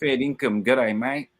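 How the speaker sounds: lightly put-on broad Aussie accent; British Aussie accent. Shown as a demonstration. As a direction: imitate a British Aussie saying hello. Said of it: "I can, I can imitate it".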